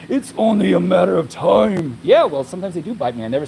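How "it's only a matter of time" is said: ominous warning. Retold or imitated. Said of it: "Somebody else will comment like".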